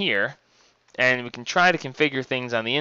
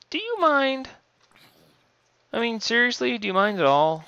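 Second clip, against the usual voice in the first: annoyed; 10 semitones higher than usual. Pretend. Scolding a mob in game.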